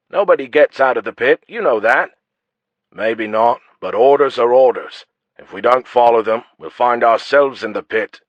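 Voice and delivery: loud, firm guard voice; gruff guard. Acted. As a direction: insist like a stern guard. Guards argue about orders.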